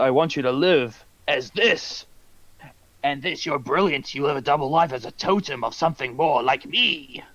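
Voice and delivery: theatrical villain speech sinking into whispery rasp; imitating Green Goblin. Villain urging his foe to live like him, hammed-up whispery menace. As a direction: deliver a villain's monologue, losing voice toward the end. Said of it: "And he's like".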